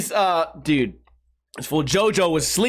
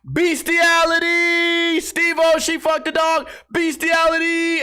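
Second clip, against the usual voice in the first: slow, outraged shout of the word; mock yell; 8 semitones higher, slower than usual. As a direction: bellow it slowly like an outraged girl slamming the door. Girl yells it then slams door.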